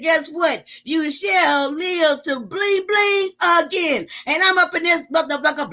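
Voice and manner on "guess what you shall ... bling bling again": voice of the Lord. Retold or imitated. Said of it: "the Lord answered and said".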